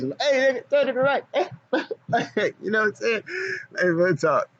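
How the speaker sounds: high, squeaky cartoon voice, quick and goofy; cartoon character voice. Vlogger riffing to his chat in a high cartoon voice. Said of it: "start talking like a cartoon character".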